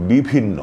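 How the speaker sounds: বিভিন্ন with plain ব then breathy ভ; careful pronunciation. Shown as a demonstration. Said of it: "প্রথমে আছে অল্প প্রাণ". (শুদ্ধ উচ্চারণ: বিভিন্ন)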